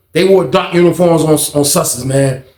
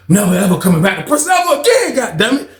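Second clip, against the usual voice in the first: laughing vow; 3 semitones higher than usual. Retold or imitated. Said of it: "I'm standing back looking like".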